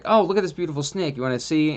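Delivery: a hint of an eager fan showing off a snake; mild mock gush over a beautiful snake; snake enthusiast. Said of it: "somebody would be like".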